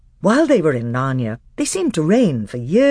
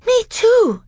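frightened; 7 dB louder than usual. Acted. Lucy frightened.

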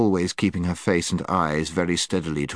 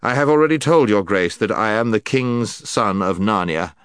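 stern; 3 semitones higher, 5 dB louder than usual. Acted. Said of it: "said the prince sternly".

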